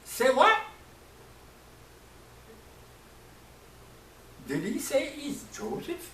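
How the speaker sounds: high, astonished double take; can't believe their ears; stunned disbelief. Acted. The brothers hearing he is Joseph, high and astonished. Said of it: "were like".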